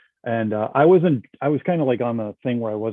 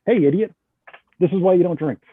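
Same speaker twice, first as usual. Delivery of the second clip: self-scolding; 4 semitones higher than usual. Retold or imitated. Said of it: "it dawned on me".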